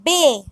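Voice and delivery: B said as "beh"; B with a pure e vowel, not "bee"; Spanish letter B. Shown as a demonstration. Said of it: "B is pronounced as".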